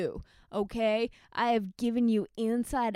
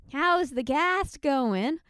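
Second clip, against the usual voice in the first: louder, slow, mocking echo; loud and drawn out; 6 semitones higher, 7 dB louder, slower than usual. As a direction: throw the question back, slow. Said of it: "You tell me".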